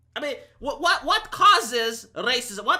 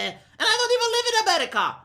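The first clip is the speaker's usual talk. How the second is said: laughing aside; 10 semitones higher, faster than usual. Real, not acted. Laughs at own joke.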